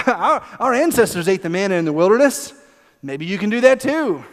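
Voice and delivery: mock-innocent child's hint; wheedling toddler. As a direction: coax like a toddler working on a parent. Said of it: "sounds like a toddler trying to get what they want".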